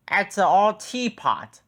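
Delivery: high, loud shout of scorn. A narrator's reading. Diesel ten shouting at Toby, high loud shout. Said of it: "shouted Diesel ten".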